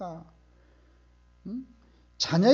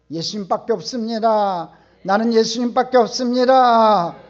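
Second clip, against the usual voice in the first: loud, building to a near shout; fervent declaration; 3 semitones higher, 12 dB louder than usual. Acted. Preacher modelling a believer's confession before the Lord, fervent and building. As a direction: proclaim it fervently, louder on the repeat.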